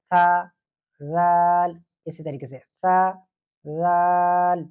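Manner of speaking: سا and زال said thin and light; thin light sa and zaal. Shown as a demonstration. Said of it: "باریک پڑھیں گے".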